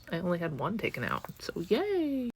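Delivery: flat sarcastic yay; deadpan first take, yay said high; stress on one. Shown as a demonstration. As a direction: lean on one, then toss off so yay. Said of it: "repeated with a different stress".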